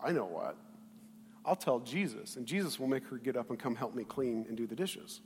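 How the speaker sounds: low, soft plotting to oneself; scheming aside. Acted. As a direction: hatch a tattletale plan under your voice. Voices Martha plotting to tell Jesus.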